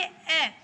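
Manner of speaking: teacher sounding out the vowel ए; vowel demonstration. Shown as a demonstration. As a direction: say ए as one clear, pure vowel sound. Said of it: "जैसे देखिए".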